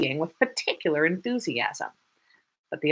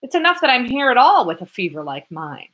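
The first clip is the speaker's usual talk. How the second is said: angry retort; 7 semitones higher, 7 dB louder than usual. Acted. Student quarrels with the lieutenant.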